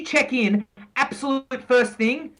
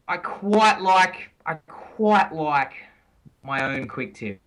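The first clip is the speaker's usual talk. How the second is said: slow and teasing; 5 semitones lower, slower than usual. Real, not acted. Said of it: "throwing down the gauntlet".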